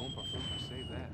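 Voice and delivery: squeaky mock voice. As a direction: squeal it like a cartoon. Mocking game announcer voice.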